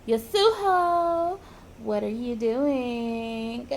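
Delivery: slow, stretched-out call; drawn-out calling. Acted. Friend calling to Yasuho, drawn-out calling. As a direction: sing the name out slowly, stretching the last word. Someone calls her name from afar.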